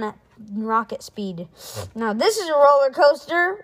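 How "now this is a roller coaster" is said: high, loud thrilled shout. Acted. Rip shouting with joy on the plunging coaster. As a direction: yell it over the rushing ride. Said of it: "Rip shouted".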